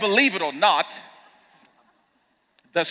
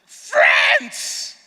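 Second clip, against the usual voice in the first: Jesus says friends. Retold or imitated. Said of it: "My Bible says".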